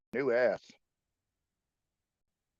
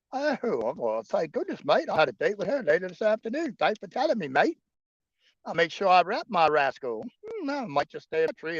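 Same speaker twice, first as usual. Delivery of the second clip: higher, louder mock Australian accent; grateful koala in cheeky Aussie voice; 7 semitones higher, 5 dB louder than usual. Koala thanking his mate for the warning, mock Aussie.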